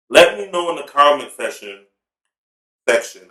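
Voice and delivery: talking through a mouthful of crab sticks; words muffled by a mouthful of food; mouth full. Real, not acted. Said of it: "I got a mouthful of crab sticks".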